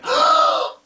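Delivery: sharp high gasp; excited high gasp. Retold or imitated. A little boy spots Duncan at the door, gasping high. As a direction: gasp like a thrilled kid. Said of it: "he's like".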